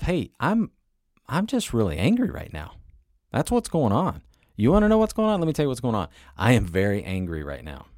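mock angry outburst. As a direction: play your own temper boiling over, loudly. Voicing his own angry self-talk.

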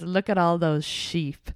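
slow, lightly attempted Russian accent; drawn-out mock Russian accent. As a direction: imitate him slowly with a hint of Russian. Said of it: "in a Russian accent".

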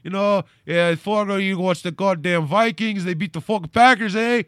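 broad, hammed-up Minnesota accent; Fargo accent. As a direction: chat like a folksy cartoon Minnesotan. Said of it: "more Fargo".

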